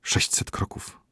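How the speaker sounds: toneless breathy whisper. A narrator's reading. Physician counts the prince's last steps, whispering. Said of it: "szepnął lekarz".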